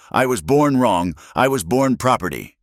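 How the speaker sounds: high, tearful, desperate voice; a woman breaking down over a cruel word; distraught young woman. Acted. Alina tells Eli what the men called her, high and distraught.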